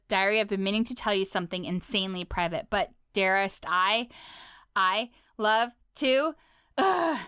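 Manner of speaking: Ice King diary. Retold or imitated. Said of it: "share what some of the stuff is that you'll hear".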